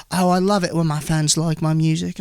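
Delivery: mock British musician; put-on British voice at an easy pitch; British accent. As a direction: imitate a British singer thanking fans. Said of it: "I just find the British accent funny".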